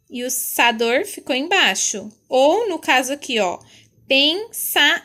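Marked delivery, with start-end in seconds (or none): 4.1-5.0 "pensar" as two loud, separate pieces, pen and sa; split into syllables. Shown as a demonstration. Teacher showing where pensador breaks at line end, "pensar" split by syllable. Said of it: "aí não coube o dor".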